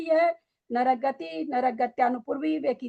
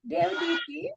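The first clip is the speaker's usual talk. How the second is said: higher, heated rhetorical questions; heated challenge; 5 semitones higher than usual. Real, not acted. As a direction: press the student hard with questions.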